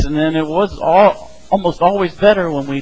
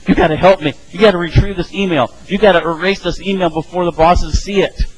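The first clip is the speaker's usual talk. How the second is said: mildly raised, urgent retold plea; mock desperation, a bit higher and insistent; frantic; 3 semitones higher than usual. Worker begging IT to erase a misdirected email, half-acted frantic. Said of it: "They went screaming to I T".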